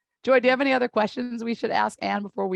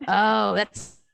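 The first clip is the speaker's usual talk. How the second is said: a lightly done severe German therapist; German therapist accent. Acted. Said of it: "That's the German".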